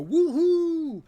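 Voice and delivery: loud, high imitation of triumph; victorious whoop. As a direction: whoop it out like a winning player. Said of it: "and they go".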